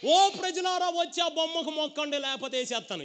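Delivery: high, commanding royal proclamation; a hint of a pompous king; proud king. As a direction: announce it like a king threatening. King commands people to bow.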